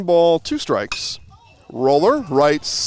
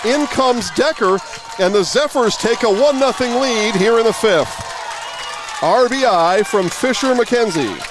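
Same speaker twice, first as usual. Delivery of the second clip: excited run call; 6 semitones higher than usual. Real, not acted. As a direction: ride the moment as Decker crosses home. Run scores, live play call.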